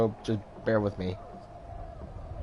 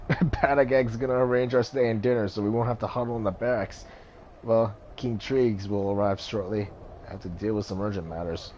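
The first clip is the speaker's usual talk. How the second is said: lightly voiced jovial big man, easing down at the end; a hearty comrade, then winding down; a hint of a jovial big warrior; big fellow Aki.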